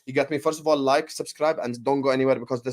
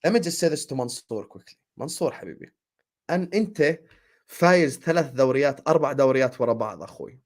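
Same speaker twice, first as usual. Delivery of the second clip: speaking Arabic; 3 semitones lower, much faster than usual. Real, not acted. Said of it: "I'm gonna respond to him in Arabic".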